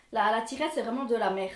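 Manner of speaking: Belgian French accent slipping out on MERDE. Real, not acted. Vlogger cursing a stuck zipper, Belgian accent showing. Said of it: "tout mon accent belge est revenu".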